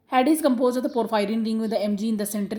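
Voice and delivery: reads the definition word by word, slowly; slow, deliberate reading of the textbook sentence. Shown as a demonstration. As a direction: dictate it slowly for notes. Reads textbook line aloud.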